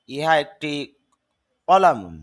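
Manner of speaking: "ইহা একটি কলামুন" with the Arabic ending on "কলামুন"; mock mixing Bangla with Arabic "কলামুন"; "ইহা একটি কলামুন" said wrongly. Shown as a demonstration. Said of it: "এটা ভুল হবে".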